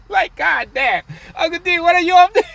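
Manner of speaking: high, loud, fast laughing exclamation; cracking up while asking; laughing disbelief. Real, not acted.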